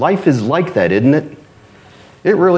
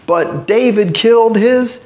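high, scornful, drawn-out questioning; incredulous, higher-pitched lords chiding their king; mocking Philistine lords; 4 semitones higher than usual. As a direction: scold Achish like he's a fool. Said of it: "they're like".

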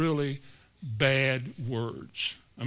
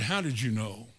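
lower, softer quoted reply; retold normal voice; 5 semitones lower, 5 dB quieter than usual. Preacher imitating the man whose voice turned normal, subdued. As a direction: drop to a low, subdued question. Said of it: "his voice turned to normal".

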